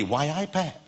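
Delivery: quick demo of Geordie; Geordie accent. Shown as a demonstration. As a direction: say it like a Geordie from Newcastle. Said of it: "It was Geordie".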